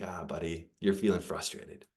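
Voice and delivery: hushed, tender retold comfort; gentle empathy. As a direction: meet a child's upset with quiet understanding. Father soothing angry son.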